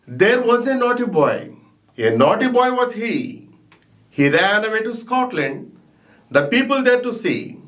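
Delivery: measured poem recitation, line by line; reciting a poem. Shown as a demonstration. Teacher reciting the poem to students, measured. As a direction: recite it steadily for the class. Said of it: "This is reciting".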